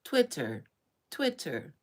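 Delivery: even machine gun syllables; glitching robot. Retold or imitated. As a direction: repeat each word like a stuck machine. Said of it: "Gen Zs and Gen Alphas glitching".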